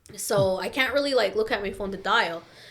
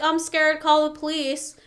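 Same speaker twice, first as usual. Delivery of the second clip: imitating scared dad; 5 semitones higher than usual. Scared dad behind daughter-in-charge asking for police, imitated fear. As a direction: mimic a frightened father calling for help. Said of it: "he's, like, scared".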